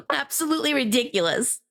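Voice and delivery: repeated through a real laugh. Real, not acted. Streamer to chat about silly boxers, laughing. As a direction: let the laugh carry the words.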